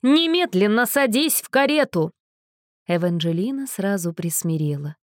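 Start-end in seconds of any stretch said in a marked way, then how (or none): 0.0-2.1 loud, stern order; angry command. Acted. Angry mother orders daughter into carriage. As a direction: order her in at once.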